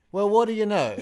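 high, loud checkout-chick marvelling; mock amazement. Retelling the checkout chick's reaction, mock amazed. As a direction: marvel loudly in a put-on accent.

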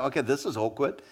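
a self-conscious aside to yourself; embarrassed onlooker mutters low; awkward mutter. Retold or imitated. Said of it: "You go".

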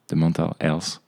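put-on English words in a thick French accent. Pitching an idea at a contest, French-accented English. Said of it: "avec mon accent pourri".

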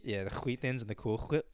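"Wheat" and "Whip" each begin with a rasped throat sound before the W; throaty hw on both words. Retold or imitated. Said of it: "a real, like, Jewish throat sound".

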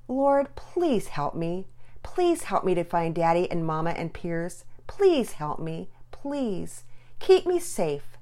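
put-on slow, pleading child's prayer. Lost girl praying alone in the dark, pleading. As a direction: plead for help, drawing out "please".

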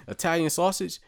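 Italian sausage rising high in disbelief; incredulous echo. Retold or imitated. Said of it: "I say".

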